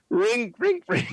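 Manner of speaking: loud vocal phone ring; phone ringing noise. Pretend. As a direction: ring it out like a telephone. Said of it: "I heard of a ring sound".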